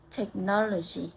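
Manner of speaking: "Technology" with the beat on NOL; stress on third-last syllable. Shown as a demonstration. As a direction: say "Technology" as tech-NOL-ogy. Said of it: "we stress in the third last syllable".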